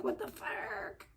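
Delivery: breathless voiceless whisper, slow. Real, not acted. Losing her voice, she whispers it to chat. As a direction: barely get it out in a whisper. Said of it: "I feel like I'm losing my voice".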